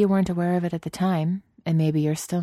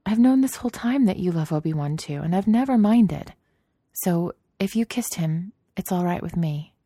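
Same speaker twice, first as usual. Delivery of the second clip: reassuring; 4 semitones higher than usual. Acted. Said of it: "she assured him".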